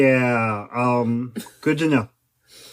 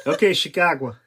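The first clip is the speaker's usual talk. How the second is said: Chicago accent, laughing; 3 semitones higher than usual. Shown as a demonstration. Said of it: "There you go".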